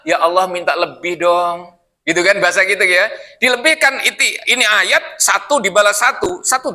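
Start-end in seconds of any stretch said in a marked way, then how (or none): 0.0-1.8 slow, mildly mock-pleading whine; imitated tearful begging. Preacher shows how the Prophet wept, pleading slowly. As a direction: beg for more, lightly acting the tears. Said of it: "Nangisnya gimana?".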